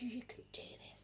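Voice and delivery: soft whispered pep talk; gentle encouragement. Acted. Acting herself as midwife, gentle whispered encouragement. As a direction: whisper it tenderly to a labouring mother. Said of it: "But most of me, it's like".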